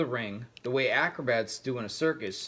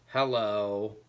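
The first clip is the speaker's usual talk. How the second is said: sharp; 4 semitones lower than usual. Acted. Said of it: "replied Snowbell sharply".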